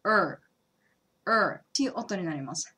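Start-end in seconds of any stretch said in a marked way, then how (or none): 0.0-0.4 "う" said as a tensed English r, tongue cupped; R sound demo. Shown as a demonstration. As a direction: hold the tongue back and voice a strained "う". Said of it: "日本人には出しづらい音なんですけど". (舌を力ませた英語のrの「う」)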